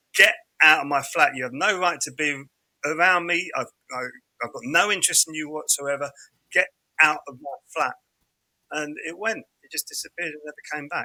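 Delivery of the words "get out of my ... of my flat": ordinary talk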